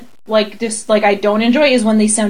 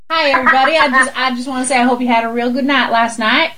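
lightly put-on Southern greeting; Southern accent; faster than usual. Imagining greeting coworkers tomorrow, put-on Southern accent. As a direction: slip into a chatty Southern accent. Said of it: "starting to slip into the accent".

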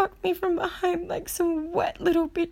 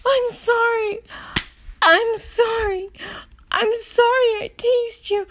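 pleading apology; 3 dB louder than usual. Acted. Acted desperate apology.

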